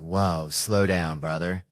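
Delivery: drawn-out, slow caution; slow, low-key acted hesitation; mock restraint. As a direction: stretch it out as if holding someone back. Acted reply holding off pushy dealer.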